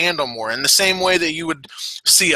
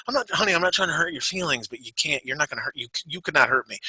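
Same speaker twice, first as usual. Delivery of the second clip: softer, condescending reassurance; gently placating; 6 dB quieter, faster than usual. Retold or imitated. Telling girlfriend she can't hurt him, gently placating.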